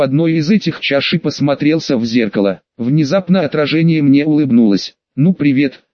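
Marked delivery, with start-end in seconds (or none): 5.2-5.8 breathy cutesy giggly. Acted. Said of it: "кокетливо сказала оно мне своим писклявым голосом".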